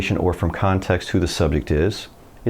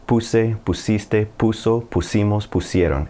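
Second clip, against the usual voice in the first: slow drill recitation. Shown as a demonstration. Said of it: "And then you say it again".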